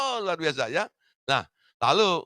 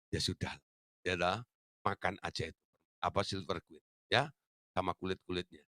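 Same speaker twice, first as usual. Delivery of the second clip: softer, lower grumble of giving up; resigned sulk; 9 semitones lower, 6 dB quieter than usual. Retold or imitated. Father quietly giving in to his stingy eldest son. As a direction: let it go with a sulky sigh.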